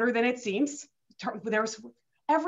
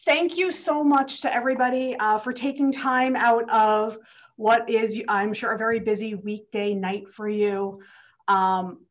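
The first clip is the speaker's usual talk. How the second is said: slightly winded, catching breath; talking while still out of breath. Real, not acted. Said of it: "I'm also a little out of breath".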